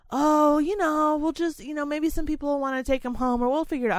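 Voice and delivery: dismissive coworker. Retold or imitated. Coworkers brushing off the goldfish plan.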